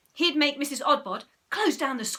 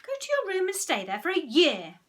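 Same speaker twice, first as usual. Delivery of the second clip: stern parents; 7 semitones higher, 4 dB louder than usual. Acted. Parents order Peter away.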